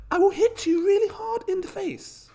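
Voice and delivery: high, hammed-up posh voice, outraged darling. Posh investor swears revenge on the developer, hammed-up high posh voice. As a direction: camp it up like a posh toff threatening violence. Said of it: "if you're posh".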